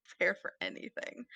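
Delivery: whispered echo. Real, not acted. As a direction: mutter it again to yourself. Echoes own words under breath.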